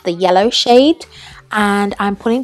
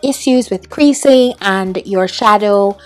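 put-on British accent. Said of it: "completely in a British accent".

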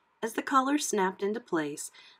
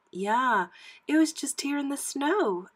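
lightly voiced higher young pup; puppy Annette; 6 semitones higher than usual. A narrator's reading. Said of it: "Annette said".

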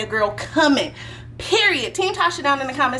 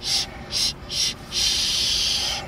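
softer shushing; breathy shh, softer; hushing; 7 dB quieter, slower than usual. Acted. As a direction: shush him to sleep. Hushing the baby.

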